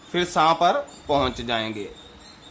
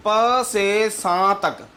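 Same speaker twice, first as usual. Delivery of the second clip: slow gentle glide; 3 semitones higher, much slower than usual. Shown as a demonstration. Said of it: "कोमलता से इस प्रकार जाना चाहिए".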